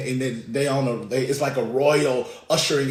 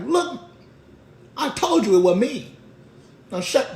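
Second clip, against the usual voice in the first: raised, loud exasperated denial; mock angry cussing-out; 12 semitones higher, 6 dB louder than usual. Peter silencing his accuser, loud acted anger. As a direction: shut the accuser down forcefully. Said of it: "Peter cussed him out".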